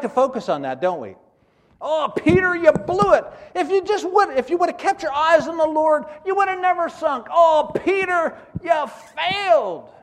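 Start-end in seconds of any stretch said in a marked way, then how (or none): 1.8-9.9 high, loud mocking rebuke; hammed-up scolding of a failed disciple; loud, mocking finger-wag at Peter.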